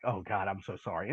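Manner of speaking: low, soft, caught-out apology; sheepish apology. Retold or imitated. Scolded man apologising to God, sheepish and hushed. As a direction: retell it like a caught kid, dropping low and quiet. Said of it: "like a kid that just got caught".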